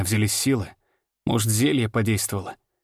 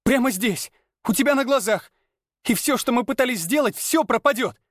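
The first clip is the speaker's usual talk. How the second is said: high, frantic outburst; pleading in panic; frantic woman; 12 semitones higher than usual. A narrator's reading. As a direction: Lana crying out. Lana continues screaming.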